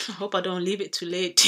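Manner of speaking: amused, breaking into laughter; tickled by an own joke; laughing. Real, not acted. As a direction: say it on the edge of a real laugh. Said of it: "Sorry, it's not funny".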